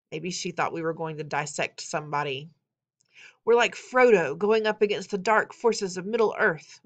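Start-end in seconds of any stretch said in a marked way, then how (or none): 3.4-6.8 mildly grand declaration; lightly dramatic proclamation; declaring. A narrator's reading. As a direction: declare it like a rallying call, a touch emphatic. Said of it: "Mateo declared".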